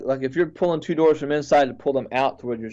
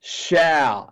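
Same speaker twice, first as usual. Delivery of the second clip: slow, measured declaration, only mildly raised; retold loud proclamation; much slower than usual. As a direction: proclaim it word by word, with weight on "shall". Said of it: "in a very, very loud voice".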